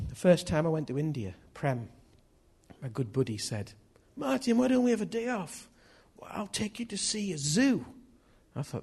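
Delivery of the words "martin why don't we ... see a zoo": higher-pitched attempt at an Indian accent. Preacher quoting his Indian friend's invitation, attempted Indian accent. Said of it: "is this an Indian accent?".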